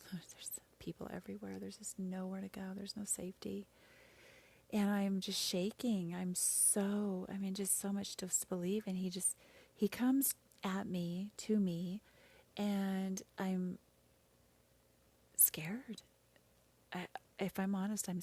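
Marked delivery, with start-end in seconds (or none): 0.1-3.7 hushed near-whisper. Real, not acted. Recalling fleeing, overwhelmed, whispering. 15.4-17.1 unvoiced, very soft confession; whispered admission. Real, not acted. Admitting fear, voice drops.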